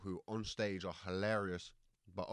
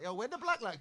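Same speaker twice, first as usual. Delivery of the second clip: imitating a stranger; 13 semitones higher, 3 dB louder than usual. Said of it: "they're like".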